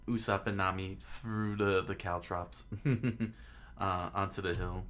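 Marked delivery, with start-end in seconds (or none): 2.7-3.7 brief laugh. Real, not acted. Reader amused by the story.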